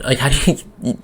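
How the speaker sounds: pleading, voice climbing in exasperation; emotional outburst at the viewers; getting emotional. Real, not acted. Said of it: "Sorry that I'm getting emotional".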